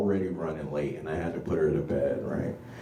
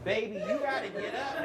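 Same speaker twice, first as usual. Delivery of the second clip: mock panic; 7 dB quieter than usual. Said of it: "And I was like".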